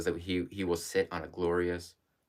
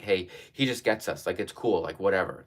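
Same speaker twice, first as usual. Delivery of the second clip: mock casual shrug. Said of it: "it sounded like".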